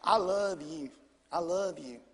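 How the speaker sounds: low, softened voice; gently insist, as the patient wife; calm, tender mimicry; imitating loving wife. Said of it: "She goes".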